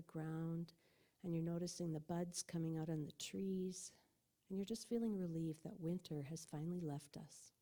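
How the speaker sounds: measured meditation-leader voice with long pauses; guided meditation. Real, not acted. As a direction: guide listeners gently through an imagined walk.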